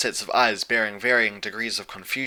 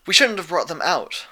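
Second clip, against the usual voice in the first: higher, louder blurted guilt; 7 semitones higher, 6 dB louder than usual. A narrator's reading. Twilight blurting her guilt to Celestia. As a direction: blurt it out before you can stop. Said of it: "Twilight blurted".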